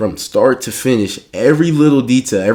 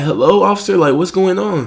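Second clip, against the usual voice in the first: high, louder panicky mom voice; mock maternal freak-out, pitched way up; 9 semitones higher, 4 dB louder than usual. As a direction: imitate a mom alarmed at the police. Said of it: "So she starts freaking out".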